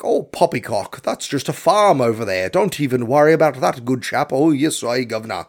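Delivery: a lightly hammed-up posh British accent; mocking the British Nazis with a toff British accent. Reviewer mocking British actors as Nazis, light posh British accent. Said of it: "it's all British actors in this".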